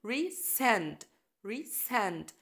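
resend with send stressed. Shown as a demonstration. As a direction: lean on send. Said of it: "بيبقى على send".

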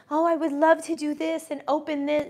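mocking fake dreamer. Mocking fake business people.

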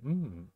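a rising, appreciative hum; tasty mm. Shown as a demonstration. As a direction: hum like the food is delicious.

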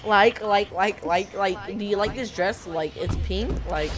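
put-on valley girl voice; lightly voiced teenage girl; teenager voice. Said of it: "Why do I sound like a fucking teenage girl?".

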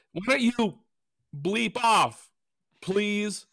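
high, sarcastically sweet; fake-polite comeback; mock-polite retort. Mimicking his own comeback to the stranger, sugary sarcastic. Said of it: "And I responded with".

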